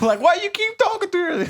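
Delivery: high-pitched, loud hammed-up blubbering; exaggerated tearful plea with a laugh; mock crying. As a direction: imitate a boy wailing and stumbling over his words. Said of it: "like, crying in the classroom".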